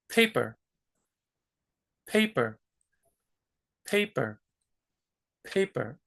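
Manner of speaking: paper with a puff of air on each P; aspirated English P. Shown as a demonstration. Teacher demos aspirated English paper. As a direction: breathe out hard on the P of paper. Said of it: "Because it's aspirated".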